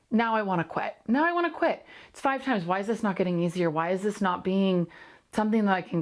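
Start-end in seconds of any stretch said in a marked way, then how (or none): 1.1-1.8 much higher, falling hard on I; emphatic repeat. Real, not acted. Host to listeners, emphatic frustrated repeat. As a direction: push it up and land it.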